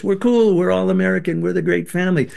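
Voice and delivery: mock cheerful facade. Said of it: "our presentation to the outside world was".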